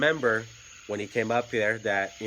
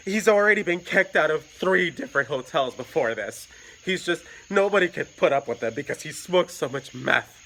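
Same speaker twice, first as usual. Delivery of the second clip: higher, slightly louder complaint; a hint of the distraught boyfriend; lightly voiced distressed boyfriend; upset boyfriend; 6 semitones higher, 5 dB louder than usual. Boyfriend complaining about him.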